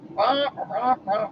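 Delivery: wordless droning grown-up wah-wah; Charlie Brown's mom. Retold or imitated. What she hears when brother nags, mock droning. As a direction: imitate a cartoon adult's unintelligible drone. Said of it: "Charlie Brown's mom".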